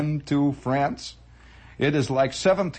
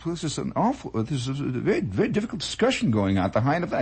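put-on lightly accented, quick Belgian phrasing; a hint of a Belgian ham, fast; faint Belgian accent; 3 semitones lower, faster than usual. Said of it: "was a Belgian".

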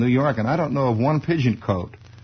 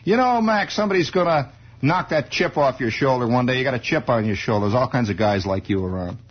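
tough movie heavy. Retold or imitated. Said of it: "somebody third from the left says".

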